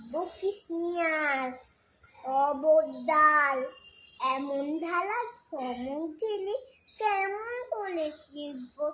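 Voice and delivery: lilting, measured recital of a verse; poem recitation. Acted. Reciter performing Sukumar Ray's poem for listeners, lilting recitation. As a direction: recite line by line, pausing between phrases, questions sung out.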